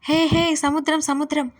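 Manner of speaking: calling out gleefully at the sea; excited shout. Acted. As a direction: yell it with joy, voice up high. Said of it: "అని అరుస్తూ". (సంతోషంగా అరుపు)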